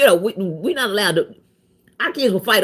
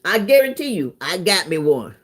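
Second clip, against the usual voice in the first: a hint of a smug man crowing about his catch; lightly voiced, pleased with himself; mild mock brag about easy money; mock gloating scammer. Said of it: "He thought he".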